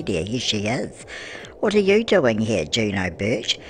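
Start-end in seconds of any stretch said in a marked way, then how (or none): 1.6-3.6 excited greeting. Acted. Granny greeting Juno Birch in the game, thrilled and loud. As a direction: call out as if to a famous friend.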